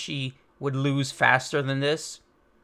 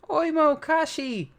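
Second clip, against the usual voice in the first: excited shout; 13 semitones higher, slower than usual. Acted. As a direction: cry out the two names in delight. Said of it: "Usopp's happy".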